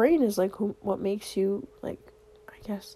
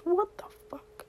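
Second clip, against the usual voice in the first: surprised; 9 semitones higher than usual. Real, not acted. Realises message is thirty minutes.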